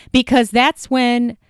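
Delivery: slow, drawn-out mock enthusiasm; mildly sarcastic, deliberately paced; kind of sarcastic. Real, not acted. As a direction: stretch it out with light sarcasm. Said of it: "that's kind of sarcastic".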